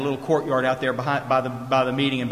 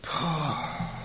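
soft acted exhale of dread; petrified sigh; 9 dB quieter than usual. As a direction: let the breath out, acting frozen with fear. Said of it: "I am so petrified".

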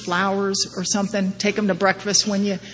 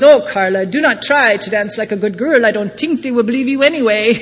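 put-on French Haitian accent; 5 dB louder than usual. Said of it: "in his beautiful French Haitian accent".

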